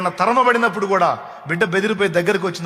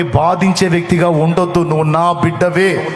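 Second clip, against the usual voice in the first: forceful preaching; 5 dB louder than usual. Acted.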